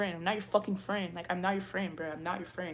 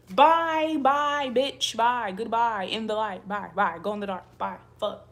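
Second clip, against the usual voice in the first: angry dismissal; 9 dB louder than usual. Real, not acted. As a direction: shout them out the door. Angrily dismissing someone from the live.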